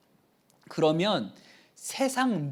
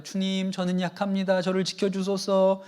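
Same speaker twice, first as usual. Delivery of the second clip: genteel prayer. Retold or imitated. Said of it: "카톨릭에서는 이렇게 고상하게 하나 봐요".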